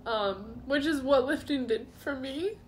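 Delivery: real tears, voice high and breaking; crying and laughing, can't stop; crying, worn out. Real, not acted. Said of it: "I can't stop crying".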